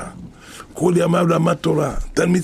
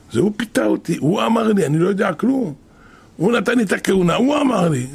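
raised-pitch protest, acted out; pleading self-defense; 3 semitones higher than usual. Fleeing priest excusing himself to his pursuers, pleading self-defense. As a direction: plead that the blame is someone else's.

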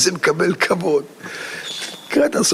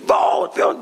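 higher, calling shout for more; mock crowd shout; 10 semitones higher than usual. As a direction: call out for more. Dancers urged on at dawn. (קריאה לעוד ריקוד)

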